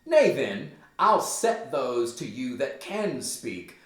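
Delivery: slow, lightly voiced threatening mom; pulling a mom. Mother threatens rude son with others, mild slow warning. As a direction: warn your child slowly, loud at the start. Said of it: "she's pulling a mom here for sure".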